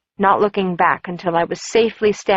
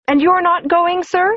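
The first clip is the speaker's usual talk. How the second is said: prying office gossip, pitched up; Ruby's voice, higher; 12 semitones higher, 3 dB louder than usual. Acted. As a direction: lift the voice to play curious Ruby.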